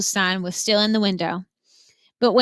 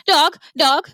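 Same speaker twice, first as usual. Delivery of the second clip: higher, louder parrot squawk; screeching parrot; 6 semitones higher, 6 dB louder than usual. A narrator's reading. Parrot screaming at the dog chasing animals. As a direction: screech it like a panicked bird. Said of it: "Gertrude kept screaming".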